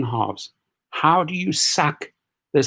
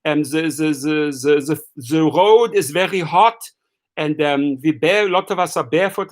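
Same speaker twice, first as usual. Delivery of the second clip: mock German tourist; 4 semitones higher than usual. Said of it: "they said".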